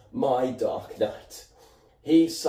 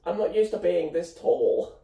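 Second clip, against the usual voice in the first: high mock voice for a cat; pet cat's voice; 7 semitones higher than usual. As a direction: speak up high as the cat talking to Dad. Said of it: "She's like".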